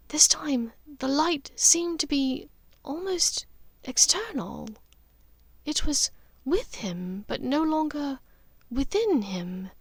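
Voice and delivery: a mother confiding something uncanny, half-whispered; Narcissa's voice. Acted. Narcissa speaks in story.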